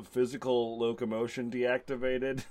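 flat, even robotic monotone. Acted. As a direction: say it like a deactivating robot. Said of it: "like, in a robotic voice".

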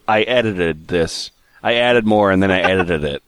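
low, dopey forum poster voice; mock dopey voice. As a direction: imitate the clueless author. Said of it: "him saying".

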